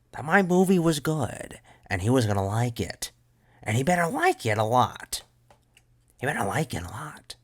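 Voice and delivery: high, loud, cracking outburst; voice cracks. Acted. Son demanding father like his movie, cracking voice. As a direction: let the voice break as it climbs. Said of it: "you gotta get the voice cracks".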